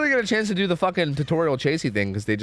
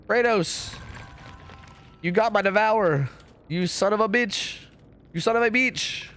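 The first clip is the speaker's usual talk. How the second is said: outraged yell; 6 semitones higher, slower than usual. Real, not acted. Betrayed in game by teammate.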